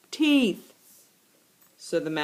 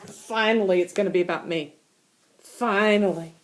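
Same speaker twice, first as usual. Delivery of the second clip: smug relief; 3 semitones lower than usual. Acted. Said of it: "Chester says".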